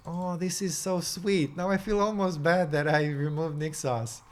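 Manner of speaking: touched, with a bit of regret; emotional. Real, not acted. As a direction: let some real feeling swell. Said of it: "I'm being emotional".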